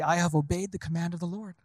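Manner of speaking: lightly voiced Saul, cheerfully claiming obedience. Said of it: "says to him cheerfully".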